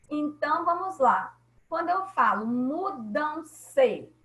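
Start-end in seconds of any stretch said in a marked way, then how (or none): 2.5-4.1 "mudam-se" drawn out in separate syllables; teacher sounding out "mudam-se" by syllables. Shown as a demonstration. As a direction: say "mudam-se" slowly, as mu-dam-se, for counting. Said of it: "eu tenho quantas sílabas".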